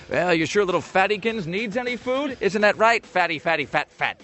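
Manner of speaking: mock baby talk to a pet; teasing pet talk. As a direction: tease the fat dog in a cooing voice. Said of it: "I've just gone".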